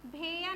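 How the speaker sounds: भैया said as bhe-ya with a plain e; mispronounced भैया, bhe-ya without the glide; wrong vowel demo. Shown as a demonstration. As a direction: flatten the ai in भैया to an e. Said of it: "नहीं बोल सकते इसको".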